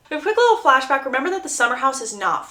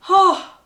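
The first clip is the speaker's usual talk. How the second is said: weary sigh; 8 semitones higher, 8 dB louder than usual. Real, not acted. Sigh after rant.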